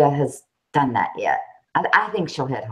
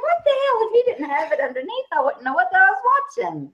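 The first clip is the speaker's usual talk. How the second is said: mock confusion. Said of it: "I'm like".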